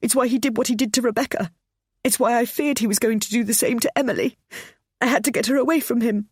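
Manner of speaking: high, loud sobbing guilt. Acted. Pammy confessing guilt to her son, sobbing. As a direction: let the sobs push the words. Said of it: "She was sobbing now".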